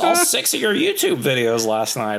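lightly voiced gushing client; a mock starstruck prospect; eager fan. Client raving about his YouTube videos, mock fan voice. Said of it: "They'd be like".

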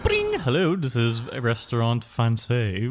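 lightly put-on restaurant host answering a call; mock phone pickup with a questioning lift at the end; playful, hinted receptionist voice; restaurant phone greeting. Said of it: "How, how was the accent? Can we hear it?".

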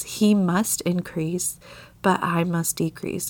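slow, with weight on each "must"; a verse read deliberately, "must" stressed. Real, not acted. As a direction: lean on "must" in both halves, slowly. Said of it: "putting heavy emphasis on the word must".

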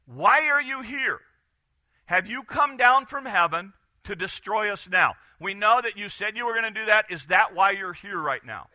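lightly acted demand for answers; demons' challenge. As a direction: press Jesus with anxious questions. Acts out demons confronting Jesus.

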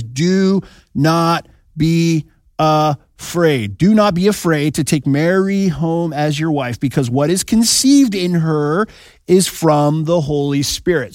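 slow, drawn-out, weighty; solemn scripture reading. Acted. Pastor reads the angel to Joseph, slow and solemn. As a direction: read it like an angel's command.

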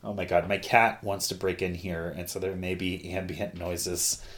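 ordinary talk, nothing marked

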